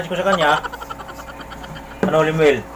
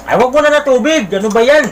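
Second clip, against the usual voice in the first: high, loud exasperated outburst; exasperated exclaim; 9 semitones higher, 6 dB louder than usual. Real, not acted. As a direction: cry out in laughing dismay. Scolding child drinking water.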